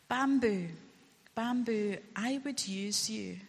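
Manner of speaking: lightly voiced gentle master; master's voice. Master calling his beloved bamboo, lightly voiced. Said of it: "The master spoke".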